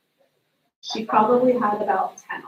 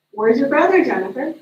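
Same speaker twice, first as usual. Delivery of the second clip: sharper, louder mom demanding an answer; a mom pressing her daughter, a bit louder; impatient mom; 3 semitones higher, 5 dB louder than usual. Retold or imitated.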